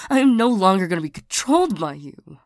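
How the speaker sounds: heated, firm declaration; defiant outburst. Acted. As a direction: push back hard, fed up. Angry outburst at the ex.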